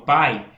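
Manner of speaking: "pai" with a strong, held "a" and a light glide "i"; stressed a in pai. Shown as a demonstration. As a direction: let the "a" of "pai" carry the word. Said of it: "qual é a vogal mais forte". ("pai" com o "a" forte e o "i" fraco)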